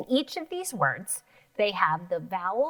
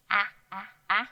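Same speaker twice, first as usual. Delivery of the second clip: 1 short a demo; faster than usual. Shown as a demonstration. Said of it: "We have apple".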